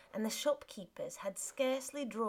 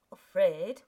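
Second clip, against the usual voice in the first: startled loud echo; 12 dB louder than usual. Acted. Husband startled by her words.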